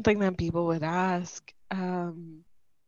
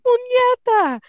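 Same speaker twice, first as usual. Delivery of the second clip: mock curse; 7 dB louder, slower than usual. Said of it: "she was just like".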